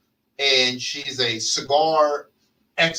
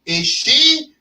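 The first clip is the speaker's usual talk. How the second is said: laughing threat; 5 semitones higher, 3 dB louder than usual. Retold or imitated. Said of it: "I said to myself".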